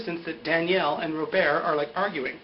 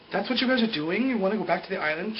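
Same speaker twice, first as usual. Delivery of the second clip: higher-pitched incredulous question; acted disbelief; 4 semitones higher than usual. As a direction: retell it as an indignant question. Acts out Sun's incredulous question.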